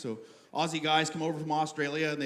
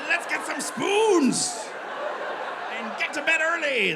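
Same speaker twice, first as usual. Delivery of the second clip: high, drawn-out cheer; mock town slogan; 9 semitones higher, slower than usual. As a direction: holler it like a party-town slogan. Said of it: "That's the slogan".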